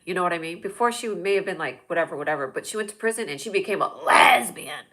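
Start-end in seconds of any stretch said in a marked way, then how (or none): 4.0-4.9 LESBIAN with a loud, stretched first syllable; emphatic label. Acted. Cousin's change after prison, heavily stressed LESBIAN. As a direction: punch and drag out LESBIAN.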